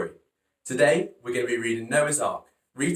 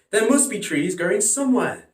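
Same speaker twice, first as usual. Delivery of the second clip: higher and louder with glee; excited; 8 semitones higher, 4 dB louder than usual. Acted. Noah seeing the olive leaf, high excited voice. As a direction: bubble over with hope. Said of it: "Noah exclaimed".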